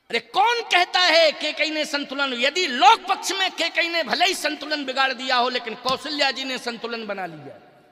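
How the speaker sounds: high-pitched preacher's challenge; indignant rebuttal. Real, not acted. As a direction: push back hard at the doubters. Rebuts what people say about Kaikeyi. (ऊँचे स्वर में जोशीला खंडन)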